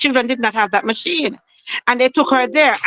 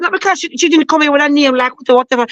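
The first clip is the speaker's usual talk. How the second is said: higher, pushed angry voice; retold angry retort; 4 semitones higher than usual. Grieving mother confronting the doctor, high angry retort. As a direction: throw her words back at her, high and sharp.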